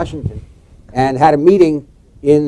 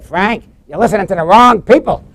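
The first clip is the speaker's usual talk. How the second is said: raised, accusing retort through a laugh; pointed rebuke; 7 semitones higher, 7 dB louder than usual. Retold or imitated. Volpe jabbing a finger at Dukakis, raised and accusing. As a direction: jab the words at him. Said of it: "swirled around. He stuck his finger at me".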